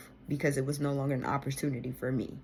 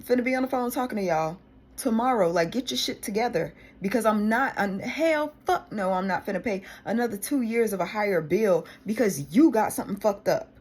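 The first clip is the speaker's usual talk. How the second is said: angry rant; 5 semitones higher, 5 dB louder than usual. Real, not acted. Ranting at phone company.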